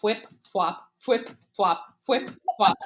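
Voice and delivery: rhythmic imitated flapping footsteps; flip-flop sounds. Killer running in flip-flops, imitated slapping steps. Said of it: "all you hear is".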